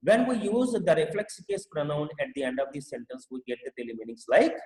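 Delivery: very slow, word by word reading; slow teacher dictation. Shown as a demonstration. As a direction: read it out slowly for students to copy. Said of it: "teacher reads rule slowly".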